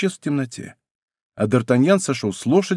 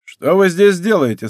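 louder, higher commanding question; 5 semitones higher, 5 dB louder than usual. A narrator's reading. Leader demands answers from D'Artagnan, commanding. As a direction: demand it like one used to obedience. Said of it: "повелительным голосом".

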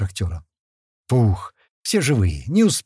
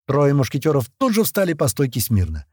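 ordinary delivery, nothing marked

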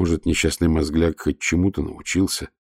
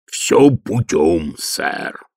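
cheerful; much slower than usual. Acted. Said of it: "жизнерадостно сказал Детрит".

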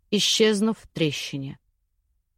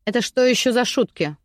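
getting angry; 3 semitones higher than usual. Acted. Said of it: "начала злиться женщина".

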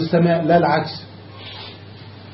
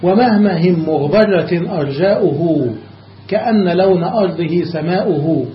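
poem recitation. Shown as a demonstration. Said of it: "مثل قول الشاعر".

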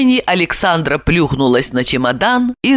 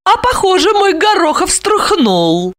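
gloating thought; 12 semitones higher than usual. A narrator's reading. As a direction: savour his fear. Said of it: "и подумала". (злорадно про себя)

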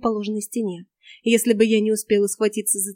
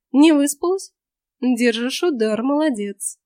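cold smirk; 3 semitones higher, 3 dB louder, slower than usual. Acted. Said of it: "холодно усмехнулась".

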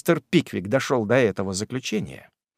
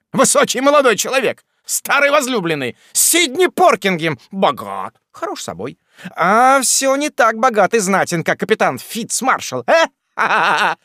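high, quick jeering patter; high gloating list ending in a laugh; mocking taunt; 8 semitones higher, 4 dB louder than usual. A narrator's reading. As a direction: tease them mercilessly. Jingle taunts the family.

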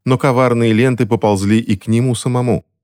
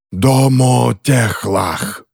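very slow, drawn-out, higher-pitched incantation; solemn pronouncement; 4 semitones higher, much slower than usual. A narrator's reading. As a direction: stretch each word like a sentence being carried out. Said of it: "произнёс Иоран Ри, занося нож".

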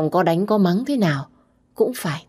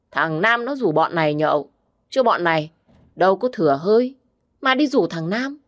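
cocky drinking buddy; 3 semitones higher than usual. Acted. Drinking buddy answers back.

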